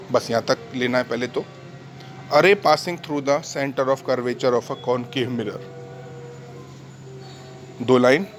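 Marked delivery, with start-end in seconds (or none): 2.3-5.6 slow, measured teacher's dictation. Real, not acted. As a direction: read out slowly for note-taking. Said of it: "मैं धीरे धीरे बोलता हूँ".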